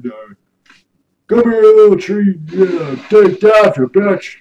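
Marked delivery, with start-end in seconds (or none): 1.3-4.4 mock tough taunt. Quoting character taunting a tree.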